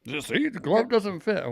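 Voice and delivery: high-pitched attempt at East London Cockney; mock Cockney accent. Imitating dad on the glove trial, mock Cockney accent. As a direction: put on a hammy Cockney accent. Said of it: "he would say it in a East London Cockney accent".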